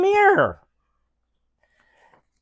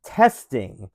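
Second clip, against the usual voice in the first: Abraham Lincoln voice. Acted. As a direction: read it like a president at a memorial, with only a hint of Lincoln. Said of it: "in Abraham Lincoln voice".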